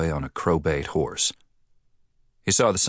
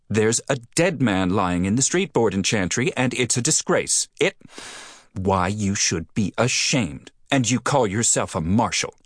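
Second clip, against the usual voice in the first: higher, prim scolding woman; indignant scolding; 4 semitones higher than usual. Acted. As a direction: scold him like a fussy lady. Indignant postmistress scolds marshal.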